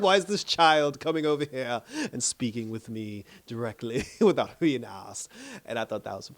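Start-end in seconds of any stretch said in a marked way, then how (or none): 0.0-5.3 indignant queen. Retold or imitated. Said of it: "She was like".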